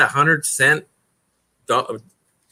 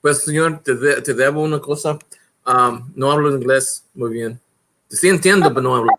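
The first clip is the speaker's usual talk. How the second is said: put-on Spanish accent. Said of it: "I went to my Spanish accent".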